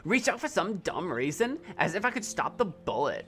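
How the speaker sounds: lightly voiced Valley Girl reading. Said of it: "do the Valley Girl again".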